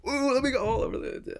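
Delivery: high, loud silly gesturing voice; mock show-off. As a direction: wave it about like a show-off. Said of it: "you're like".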